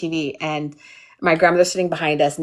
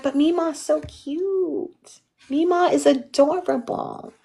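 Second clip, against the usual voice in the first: higher, slow whiny plea; pleading kid; 8 semitones higher, slower than usual. Retold or imitated. Kid begging grandmother, slow higher whiny plea. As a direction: beg like a small child. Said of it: "I'm like".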